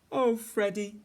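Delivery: high, heavy-hearted little sigh. A narrator's reading. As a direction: say it with a great big sigh. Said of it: "with a great big sigh".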